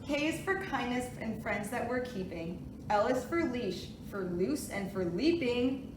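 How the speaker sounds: sing-song picture book reading; reading to a toddler. Acted. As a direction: read it gently to little kids. Reads alphabet book aloud.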